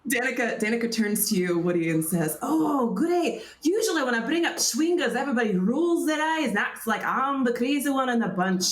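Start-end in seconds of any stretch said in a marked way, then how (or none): 2.4-8.6 lightly voiced delighted scholar. Scholar finds a fellow believer, delighted character voice.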